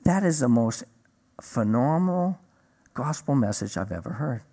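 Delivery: retold solemn praise, weighted with pauses; understated, dead-serious verdict. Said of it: "he's dead serious".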